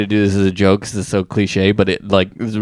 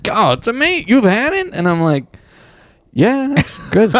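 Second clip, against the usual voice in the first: high, hammed-up New York accent for the club owner; over-the-top New York voice; 11 semitones higher than usual. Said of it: "distracted by the New York accent".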